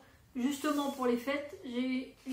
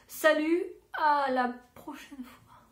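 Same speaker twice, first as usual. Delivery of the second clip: cheerful loud goodbye; 3 semitones higher, 8 dB louder, slower than usual. Real, not acted. Signing off close to camera.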